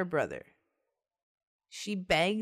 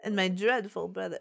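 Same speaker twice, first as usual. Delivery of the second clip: mock Southern. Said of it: "I went southern".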